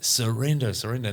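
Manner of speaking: mum screaming. Retold or imitated. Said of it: "My mum's screaming at me".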